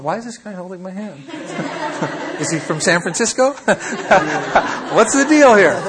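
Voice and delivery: imitating a baffled man through laughter; laughing while voicing his confused thoughts; mock puzzled American. American man wondering why his hand is held, laughing mock bafflement. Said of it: "he's going".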